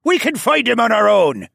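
loud, high-pitched protest; high, forceful objection; arguing. A narrator's reading. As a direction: argue back hotly over the fight. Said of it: "Theo argued".

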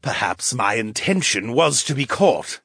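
lightly voiced purr, a touch smug. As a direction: purr it smugly. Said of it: "he purred".

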